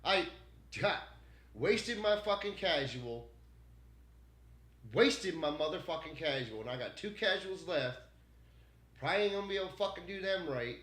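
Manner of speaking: high, loud frustrated outburst; mad. Real, not acted. Streamer angry at having wasted a casual, mad. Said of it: "I'm fucking mad".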